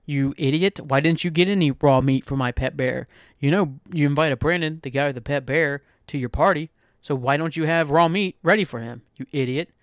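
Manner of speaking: hammed-up nagging at the host; mock party rant. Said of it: "I'm like".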